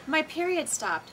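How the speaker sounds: high, drawn-out mock dismay; mock alarm. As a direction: announce it as a dramatic shock, high and slow. Acting out the episode's worried question.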